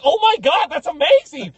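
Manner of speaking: very high, loud mock amazement; gushing onlooker. Lady admiring the running brother, hammed-up gushing. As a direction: squeal it like an impressed onlooker.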